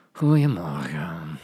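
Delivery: low, slow, bored drawl. Shown as a demonstration. Teacher demonstrating a bored good morning, low and slow. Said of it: "Je kan dat ook heel verveeld zeggen".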